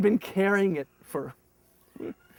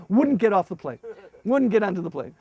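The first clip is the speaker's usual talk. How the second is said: normal talking voice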